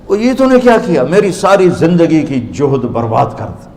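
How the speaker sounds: dismayed cry. Retold or imitated. Rumi crying out at Shams over his ruined books, shocked.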